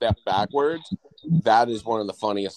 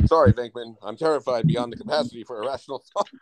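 lightly imitated deadpan, quicker toward the end; deadpan quote; 2 semitones higher, faster than usual. Fan quoting Egon's favorite line to the others, mock deadpan. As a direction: deliver the movie line in a mild deadpan. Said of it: "deadpans and goes".

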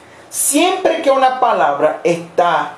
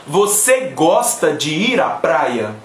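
slow model phrase; 4 semitones lower, slower than usual. Shown as a demonstration.

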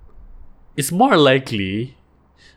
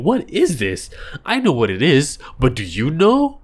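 mock TV show character; 4 semitones higher than usual. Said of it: "be like".

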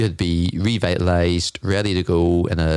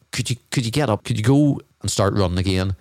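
doubting inner voice; 3 semitones higher than usual. Retold or imitated. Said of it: "you might be thinking to yourself".

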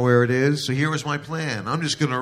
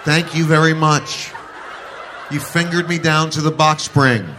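mock sarcastic thanks; 3 semitones higher, 4 dB louder than usual. Girl voiced sarcastically.

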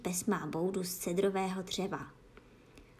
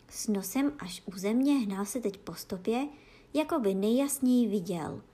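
usual speaking voice

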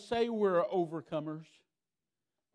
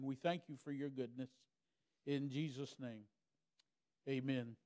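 prayer; 2 semitones lower than usual. Acted. Leads a prayer.

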